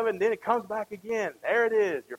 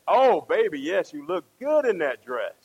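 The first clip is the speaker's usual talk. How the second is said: emphatic mock gushing compliment; white lie; 4 dB louder than usual. Husband answering wife about her dress, mock gushing. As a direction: lay on the flattery for a wife. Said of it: "it's a little white lie".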